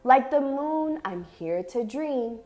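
measured, expressive picture-book reading with long pauses; reading to children. Acted. Teacher reads an affirming picture book to young dancers, expressive story reading. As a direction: read each short phrase deliberately, letting it settle.

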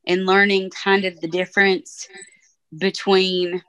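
echoey room sound; echoing. Real, not acted. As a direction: voice echoing in a big hall. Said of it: "I'm echoing".

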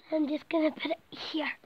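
unvoiced breathy hush; whispering inside a cramped blanket fort. Real, not acted. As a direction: whisper it to yourself as you settle the camera. Setting up camera in fort.

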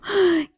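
high, sharp gasp; panicked gasp. Real, not acted. Gamer fleeing attackers, panicked gasp. Enemies attack, player flees.

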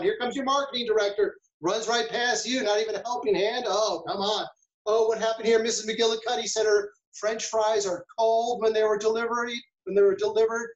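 acting out a frantic kitchen manager's day, flustered; frantic staff rush. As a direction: play a harried manager hit by crisis after crisis.

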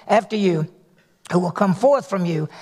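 ordinary delivery

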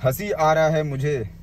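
slow, mocking imitation of the rival's line; slow mocking quote. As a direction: drag the words out to make fun of him. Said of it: "last में बोलता है।".

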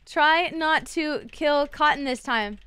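very slow typed-out dictation of "Try not to kill Cotton this time"; dictating slowly. Shown as a demonstration. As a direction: say each word slowly as you type it. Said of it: "That's our raid message".

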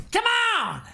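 loud, high burst of excitement; excited shout. Real, not acted. YouTuber hyping his mystery box, excited shout. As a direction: cheer the box arriving.

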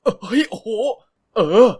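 startled loud yelp back; loud retort. A narrator's reading. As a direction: snap back loud, caught off guard. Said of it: "ตอบกลับเสียงดังลั่น".

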